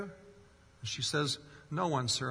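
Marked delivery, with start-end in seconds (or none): 1.7-2.3 put-on light British accent; a touch of British in the voice. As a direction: quote it with a slight British accent. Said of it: "say that with a British accent".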